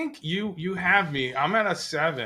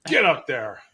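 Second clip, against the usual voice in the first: drill sergeant; 2 semitones higher, 6 dB louder than usual. Retold or imitated. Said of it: "that's the voice in my head".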